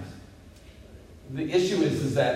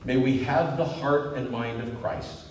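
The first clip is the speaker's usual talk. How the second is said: prayer. Real, not acted. Pastor closing the sermon in prayer, reverent and settling.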